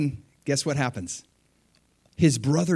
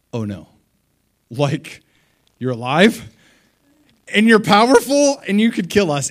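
panicky, getting much louder and higher; freaked out brothers; 7 semitones higher, 8 dB louder than usual. Retold or imitated. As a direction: blurt out in mounting alarm. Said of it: "Now they're freaked out".

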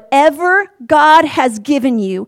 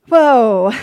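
awed whoa; 6 dB louder than usual. Real, not acted. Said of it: "I love this".

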